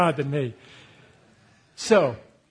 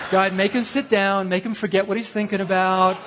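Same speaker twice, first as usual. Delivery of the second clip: mock desperate prayer; 4 semitones higher, slower than usual. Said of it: "I'm praying against him".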